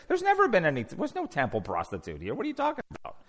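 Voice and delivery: puzzled local brushing off a strange question; baffled denial. Acted. Townspeople answering a man asking after a woman, baffled denial. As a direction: act out incredulous townspeople, pitch jumping about. Townspeople deny any temple prostitute.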